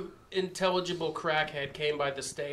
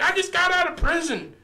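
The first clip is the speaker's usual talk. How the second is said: high loud mock redneck boast; retelling the drunk's threats, mock redneck shout; redneck bragging; 6 dB louder than usual. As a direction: ham up a drunk redneck tough guy, higher and louder. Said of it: "He's like".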